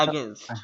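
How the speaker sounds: "against" with a short opening vowel and pressure on "gainst"; corrected pronunciation. Shown as a demonstration. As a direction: model "against" carefully, landing on the second syllable. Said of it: "কি হবে?".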